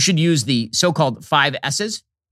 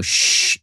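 shh breath. Shown as a demonstration. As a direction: shush close to a baby's ear. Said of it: "you go to the baby's ear and you go".

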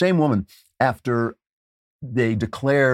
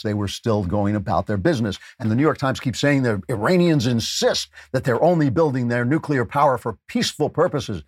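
normal talking voice

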